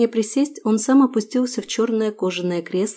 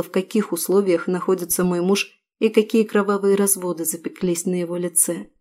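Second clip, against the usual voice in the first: ordinary delivery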